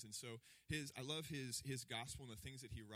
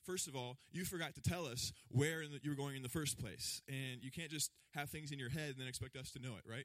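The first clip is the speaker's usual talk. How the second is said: exasperated Thomas; 3 semitones higher, 6 dB louder than usual. Retold or imitated. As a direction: scold Jesus for leaving out the details. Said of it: "He's like".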